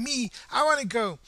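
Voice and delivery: mock crowd shouting; excited shout. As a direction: call out to be taken along. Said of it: "Everybody's shouting".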